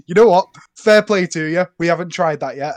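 loud, amused approval; impressed, like a genuine tip; mock impressed. Retold homeowner approving the pan-banging.

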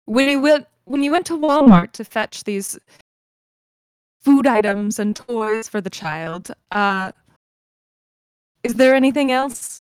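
change the subject into careful questioning; Eloise, probing. Acted. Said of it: "shift the conversation and say".

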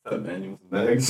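low-key, hushed dealer pitch; mock drug dealer. Co-host acts a drug dealer offering bags, hushed. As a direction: offer it quietly like a street dealer. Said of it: "a drug dealer".

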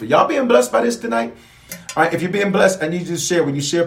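excited preacher call; rousing the crowd. Real, not acted. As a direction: pump up the church.

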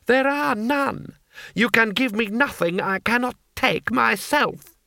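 lightly voiced cold lord, slow and measured; a hint of a smug, scheming noble; Lord Hong. A narrator's reading. Lord Hong speaking to his guards, slow and measured.

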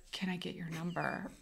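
soft, low-key request; quiet ask. Retold or imitated. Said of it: "Did he say it like that?".

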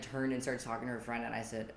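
ordinary delivery

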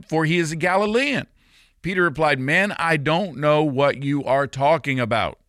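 loud, emphatic Bible reading; scripture reading. A narrator's reading. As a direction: read the passage out forcefully, lifting the quoted lines. Reads scripture aloud.

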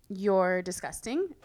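slow, controlled insult; not yelling. Retold or imitated. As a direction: deliver the contempt slowly without raising the voice. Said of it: "I said it not yelling".

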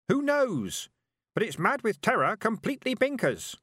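put-on a mad, terrified old memory ranting; high frantic creature voice, loud and wild. A narrator's reading. Hiver's memory voice.

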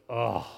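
grumbling "ugh"; groan, fed up with yourself; weary groan of disgust; exasperated groan. Acted. Acting out his Sunday afternoon grumbling.

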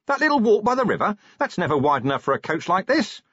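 high, incredulous call; shouted disbelief. A narrator's reading. Shouted disbelief on speeding coach.

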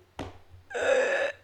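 loud frustrated groan; exasperated growl. Real, not acted. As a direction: let out a loud noise of exasperation. Groans after exasperated quote.

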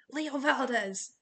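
coach yelling. A narrator's reading. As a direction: yell the name like an angry coach. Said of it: "Coach Hedge yelled from the front".

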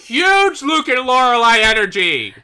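loud, high, thrilled; excited. Real, not acted. Cohost excitedly naming the Luke and Lorelai likeness. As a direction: keep the excited shout going.

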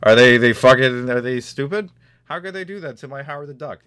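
loud whiny outraged fan; angry nerd. Retold or imitated. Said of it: "Someone's pissed off, like".

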